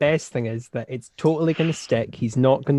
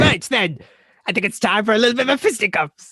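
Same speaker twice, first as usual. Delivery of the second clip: posh gentleman voice; 8 semitones higher, 4 dB louder than usual. Retold or imitated. Mocking colleague's challenge to fight.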